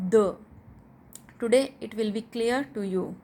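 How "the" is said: "the" said as a short "duh"; short, weak-vowel "the"; demonstrated pronunciation. Shown as a demonstration. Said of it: "pronunciate it".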